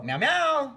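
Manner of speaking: high-pitched cat hello; bright-pitched greeting meows; meowed phone greeting. Retold or imitated. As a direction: imitate meowing hello to parents. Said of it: "call her parents and go".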